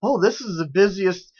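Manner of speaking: high, drawn-out gleeful newsreader; sing-song fake glee; mock gleeful. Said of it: "the audacity to be gleeful".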